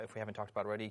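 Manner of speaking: normal talking voice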